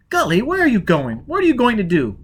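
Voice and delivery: high, loud alarmed call. A narrator's reading. Gisbella calling after Foyle as he leaves, alarmed. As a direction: call after him, worried.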